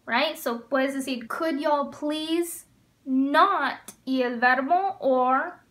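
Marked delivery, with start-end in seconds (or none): 1.3-3.9 every word stretched, falling on not; very slow model phrase. Shown as a demonstration. Teacher modeling a y'all command for students, very slow. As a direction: stretch it out for learners. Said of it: "teacher modeling y'all command".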